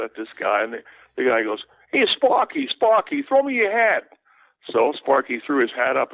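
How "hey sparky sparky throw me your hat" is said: imitating a fan shouting for a hat; calling fan. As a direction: yell up to the player from the bleachers.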